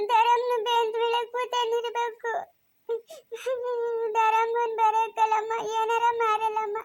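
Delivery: put-on slow, tearful child's lament; crying. Girl crying to her mother that the aunt left. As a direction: sob out her loss.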